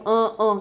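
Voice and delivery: "an" as a closed, nasalised vowel; nasal Portuguese A. Shown as a demonstration. Teacher contrasts Portuguese vowel for learners, nasal A. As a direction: hum the "an" through the nose. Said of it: "que a gente tem em português".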